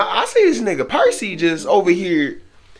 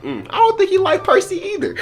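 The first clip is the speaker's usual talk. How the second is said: indifferent coach. Retold or imitated. Coach quoted watching the fight.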